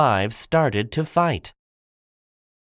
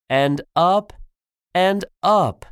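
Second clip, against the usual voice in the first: each phrase higher than the last; climbing pitch; 7 semitones higher, 3 dB louder than usual. A narrator's reading. Narrator sends Po flying upward, pitch climbing. Narrator mimics Po rising skyward.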